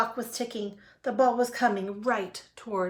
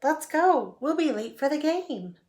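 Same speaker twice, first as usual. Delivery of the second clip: raised, high hurry-up call; urging call; 7 semitones higher, 3 dB louder than usual. A narrator's reading. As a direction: hurry a child out the door, high and loud. Dad hurrying Froggy to game.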